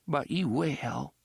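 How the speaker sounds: put-on a dark old woman's warning; ominous old woman.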